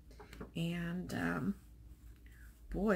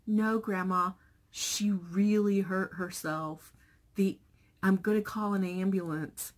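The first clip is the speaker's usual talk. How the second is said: lightly voiced son, louder; son insisting; 6 dB louder than usual. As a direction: press the point firmly. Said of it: "And he was like".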